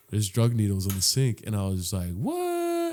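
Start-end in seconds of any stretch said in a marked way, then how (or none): 2.1-2.9 high-pitched mock shock; incredulous what. Teller reacting to needles on the sink, incredulous. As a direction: squeak it out in disbelief.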